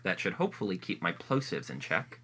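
muffled by a face mask; through a face mask. Real, not acted. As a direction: talk behind a cloth mask. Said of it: "I'm talking through a mask".

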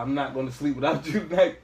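laughing through the words. Retold or imitated. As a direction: giggle while saying it. Laughing while quoting.

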